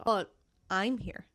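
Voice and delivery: I'm slowed and emphasised; stress on I'm. Shown as a demonstration. Answering whether Jack is here, stress on I'm. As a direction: lean on I'm against But. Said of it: "vocally stress the word".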